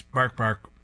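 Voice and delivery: mimicked bark-bark; barking repeated. A narrator's reading. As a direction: copy the TV bark. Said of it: "The dog repeats".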